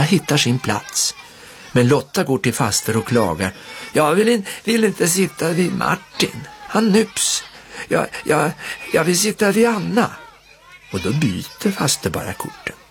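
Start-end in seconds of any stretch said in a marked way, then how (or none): 3.9-10.1 lightly voiced little girl, higher, whining a bit; complaining little girl. A narrator's reading. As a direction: play a small girl tattling to her aunt. Lotta complains to aunt.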